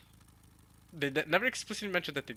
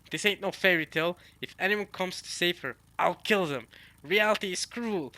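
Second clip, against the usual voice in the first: raised, louder villainous threat; 4 semitones higher, 4 dB louder than usual. Acted. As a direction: deliver it like a cruel villain. Acts out villain's threat from manga.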